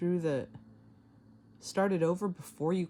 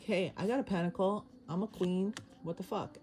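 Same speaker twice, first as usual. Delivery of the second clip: mildly pissy queen, pitched higher; 5 semitones higher than usual. Acted. Tarot reader voices the queen card bragging about her pentacle, mildly pissy. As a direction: lightly play an indignant, entitled queen. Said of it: "but she's pissy".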